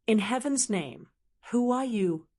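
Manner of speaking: understated startled cry. Acted. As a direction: pull back in mild alarm. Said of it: "she cried".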